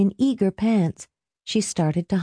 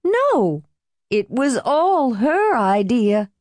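high, drawn-out protest; almost laughing; 6 semitones higher, slower than usual. A narrator's reading. Helen blaming her mother, almost laughing. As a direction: push the blame away, pitched up. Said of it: "almost laughing".

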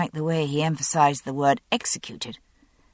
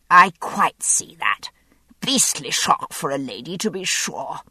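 dripping with sympathy. Acted. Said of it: "this time dripping with sympathy".

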